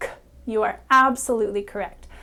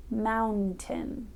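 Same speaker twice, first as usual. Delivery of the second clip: soft listening word; 6 dB quieter than usual. Shown as a demonstration. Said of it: "a word like mountain".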